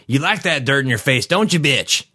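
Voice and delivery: high-pitched cruel taunt; acted mocking thug; jeering attacker. A narrator's reading. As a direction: taunt the victim, pitch swinging up. Narrator voices jeering gravediggers.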